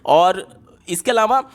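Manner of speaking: ordinary delivery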